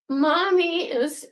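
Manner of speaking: giggling, slow, to the cat; laughing as she tells her cat she's posing. Real, not acted.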